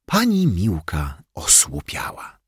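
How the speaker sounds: ordinary delivery, nothing marked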